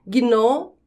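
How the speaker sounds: "Gnomo" split into gno, mo; syllable by syllable. Shown as a demonstration. Teacher keeping G and N together, syllable by syllable. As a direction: pause between the two syllables of "Gnomo". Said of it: "Quando eu separo as sílabas de gnomo".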